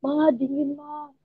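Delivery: softly imitated whimper to mum; retold tearful plea. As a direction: plead weakly, trailing off, as if tearful. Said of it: "seperti biasa saya nangis". (menirukan rengekan lirih sambil menangis)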